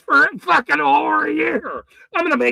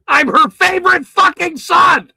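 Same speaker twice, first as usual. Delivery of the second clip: ranting shout; 4 semitones higher, 5 dB louder than usual. Real, not acted. Ranting at critics.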